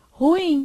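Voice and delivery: Ruim said as ru-IM; stress on IM. Shown as a demonstration. Teacher showing an oxytone, Ruim stressed on IM. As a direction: land on the final IM of Ruim. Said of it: "a sílaba tônica é essa".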